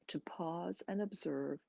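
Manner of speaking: soft breathy whisper. Acted. Teacher hushing the class into observing the pause, whisper. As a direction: let the words fall to a hush. Meditation guide drops voice.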